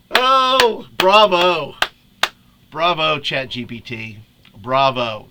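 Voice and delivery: loud, laughing bravo; amused bravo. Real, not acted. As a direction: cheer the chatbot while still laughing. Applauding the AI's answer.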